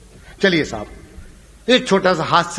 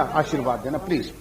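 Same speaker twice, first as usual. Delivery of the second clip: ordinary talk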